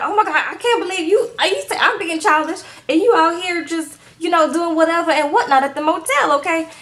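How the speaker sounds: lightly acted, high-pitched disbelief; mock indignation. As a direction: imitate an affronted girlfriend. Woman answers accusation, acted in retelling.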